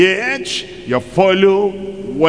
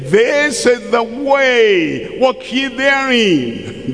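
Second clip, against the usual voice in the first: mock preacher proclaiming; 5 semitones higher than usual. Pastor voices preacher proclaiming scripture.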